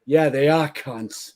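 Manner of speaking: slow, dry deadpan impression of a rock singer; drawn out, unimpressed, a light hint of the singer; imitating a rock singer. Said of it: "Lemmy just turns around and goes".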